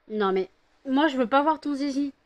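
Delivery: high, loud exasperated telling-off; loud scolding. Real, not acted. Owner scolding her dog in disgust, high and loud.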